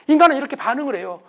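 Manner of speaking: normal talking voice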